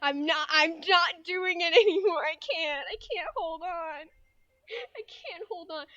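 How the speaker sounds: high, strained through laughter; breaking up laughing. Real, not acted. Streamer can't hold on to the voice, high laughing surrender. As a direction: give up mid-laugh, high.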